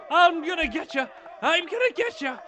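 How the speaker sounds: high, loud, wound-up yell; gleeful threat. Acted. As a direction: shout it as he winds up his punch. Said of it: "he's like".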